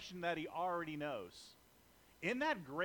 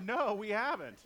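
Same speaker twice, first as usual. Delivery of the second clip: loud flat denial; 7 dB louder than usual. Acted. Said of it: "they answered him and said".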